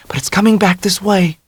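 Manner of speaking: high, tense warning; Dell, urgent. A narrator's reading. Dell voiced.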